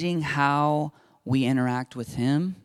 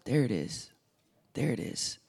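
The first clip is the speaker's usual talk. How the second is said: hushed knowing God; 3 semitones lower, 6 dB quieter than usual. Retold or imitated. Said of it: "And God goes".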